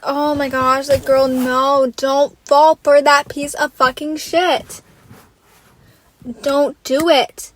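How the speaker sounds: slow, drawn-out urging; begging a friend not to fall for him; pleading warning. Retold or imitated. Vlogger warning Justine about Tyreek, slow pleading. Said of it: "I'm like".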